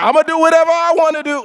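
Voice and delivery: high, loud and fast; reckless brash voice. Retold or imitated. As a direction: toss it off carelessly. Voicing reckless people.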